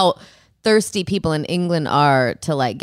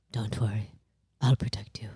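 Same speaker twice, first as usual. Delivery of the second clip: low, hushed posh British prince; breathy, protective posh British murmur; soft posh British reassurance to his frightened wife; posh British accent; 9 semitones lower, 10 dB quieter than usual. Retold or imitated. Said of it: "That's a great British accent".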